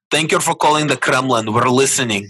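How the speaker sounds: mock deep Russian accent, lightly done; a hint of a Kremlin operator in a Russian accent. Host pranks spam callers, light Russian accent. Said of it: "In your most deep, uh, Russian accent".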